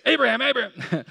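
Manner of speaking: high, loud call of God; commanding divine call. Shown as a demonstration. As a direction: boom out the name like God calling from above. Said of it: "Was it harsh? Was it tense?".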